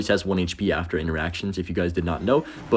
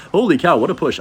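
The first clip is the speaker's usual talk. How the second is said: higher, louder thrilled exclaim; excited; 8 semitones higher, 7 dB louder than usual. Real, not acted. Celebrating the push to viewers, loud and excited. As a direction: blurt out delight at the push. Tower falls in the game.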